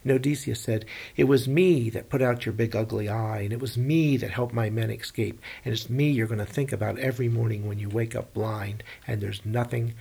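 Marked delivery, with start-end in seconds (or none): 1.2-9.9 loud gloating that fades as it goes; bragging shout. Acted. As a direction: rub it in, loud and cocky. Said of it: "Odysseus was bragging".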